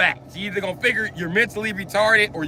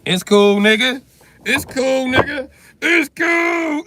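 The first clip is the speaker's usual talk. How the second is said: mock reassurance; 6 semitones higher, 5 dB louder, slower than usual. Mock reassurance building to shout.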